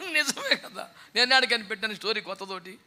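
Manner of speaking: ordinary delivery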